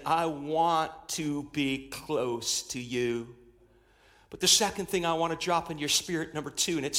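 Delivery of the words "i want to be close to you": a gentle, slowed divine promise; tender, slow and hushed. Acted. God's tender words voiced slowly.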